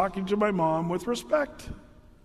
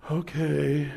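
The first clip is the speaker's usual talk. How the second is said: mock lazy okay; 4 semitones lower than usual. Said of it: "I would never say that like that".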